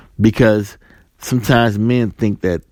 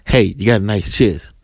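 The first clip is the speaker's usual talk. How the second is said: retold come-on in the usual pitch; lightly voiced man. Man comes up to a woman, lightly imitated compliment. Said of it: "if a man comes and says".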